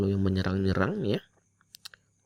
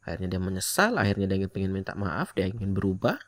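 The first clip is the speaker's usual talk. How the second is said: talking while smoking a cigarette; words around a cigarette between the lips; cigarette in mouth. Real, not acted. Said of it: "Untuk sambil ngerokok ya, sorry ya".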